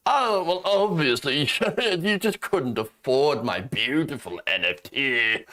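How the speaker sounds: lightly mocked smug seller, slow and laughing; snooty douchebag voice. Comedian mocking the seller in a smug slow voice. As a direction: sneer it like a pompous NFT seller. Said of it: "the unbearable voice".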